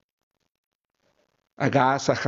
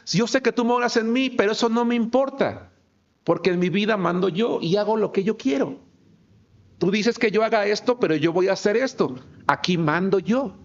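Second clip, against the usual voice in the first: higher, defiant voice of a believer brushing God aside; defiant believer talking back to God; 6 semitones higher than usual. Retold or imitated. Preacher voicing a stubborn believer to God, a mild, defiant mock voice. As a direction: push God away, proud and stubborn, a lightly acted voice. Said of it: "le decimos".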